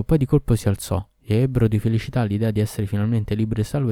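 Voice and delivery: usual speaking voice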